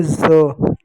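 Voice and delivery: ज said as a buzzing "za"; ज as the z of zoo; dotted z sound. Shown as a demonstration. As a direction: draw ज out with a z sound. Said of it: "जब नीचे ये बिंदी लग जाती है".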